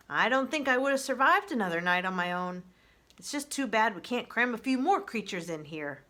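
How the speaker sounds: sly fox voice, cheerfully grateful. Acted. Fox Fink thanking Roz after a cold night, loud and cheerful.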